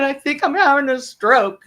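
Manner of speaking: high, pitiful hungover voice; mock-tearful insistence; almost crying. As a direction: wail it weakly, imitating someone in misery. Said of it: "almost crying, but I can't cry".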